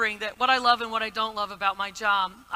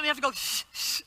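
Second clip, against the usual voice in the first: shushing blow; 4 dB quieter than usual. Retold or imitated. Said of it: "flap like this".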